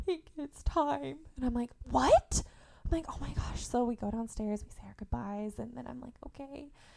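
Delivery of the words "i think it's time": crying through the words, tearful, high and slow. Retelling her sister knocking at the door in tears; imitating a sister crying. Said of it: "She's crying".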